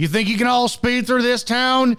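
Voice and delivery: put-on high southern Louisiana accent. Retelling how a captain spoke online: southern louisiana accent. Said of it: "in his southern Louisiana accent".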